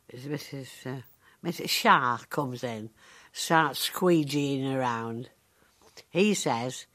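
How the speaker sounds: ordinary talk, nothing marked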